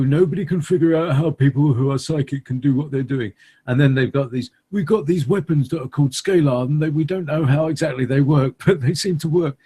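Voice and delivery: put-on a light British engineer accent. Guest musing on psychics in a light British engineer accent. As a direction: lightly play a British engineer explaining things. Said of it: "that's my British engineer voice".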